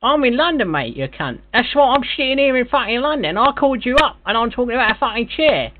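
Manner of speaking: exasperated Cockney geezer; put-on London bloke, baffled and rude; London accent. Prank caller in put-on London voice.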